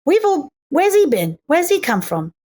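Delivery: mild mock society lady; lightly voiced curious first-class lady; first-class gossip. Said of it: "all of first class going".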